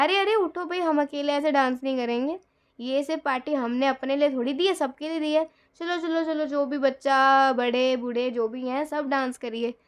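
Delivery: rally the guests onto the floor; calling everyone up. Retold or imitated. Host calling everyone to dance.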